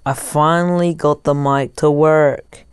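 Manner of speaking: muffled headphone-mic sound; headphones used as mic. Real, not acted. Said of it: "I'm using headphones as a mic".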